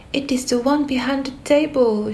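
Alice spots the right door; cried out. Acted. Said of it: "she cried".

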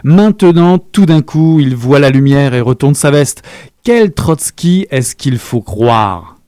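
a lightly voiced angry accuser; indignant rant. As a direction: rail against him, worked up. Character ranting against Trotsky.

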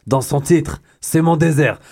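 slow, drawn-out announcer read; slow artist introduction; imitating Najim. Shown as a demonstration. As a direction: introduce the artist slowly like a radio host. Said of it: "je vous le dis en imitant Najim".

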